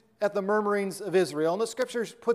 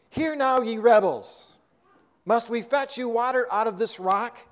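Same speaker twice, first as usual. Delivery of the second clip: preacher voicing Moses scolding Israel; Moses rebuking the rebels; 5 dB louder than usual.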